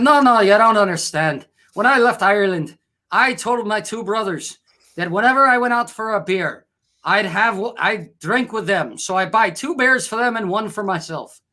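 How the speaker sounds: lightly attempted Irish accent; joke-teller's amateur Irish brogue. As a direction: put on a rough Irish accent. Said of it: "if you did that in an Irish accent".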